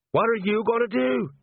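high-pitched, anxious demand; alarmed. A narrator's reading. Sergeant dangling from a roof to the gnome, alarmed. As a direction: ask it high, in rising panic.

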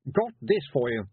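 eager and flustered; nervous boy. Acted.

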